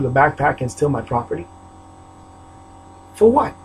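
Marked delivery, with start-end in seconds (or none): 3.1-3.5 real outrage, voice jumping up; raised voice. Real, not acted. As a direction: fling the question out in real anger. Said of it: "This is what's making me raise my voice".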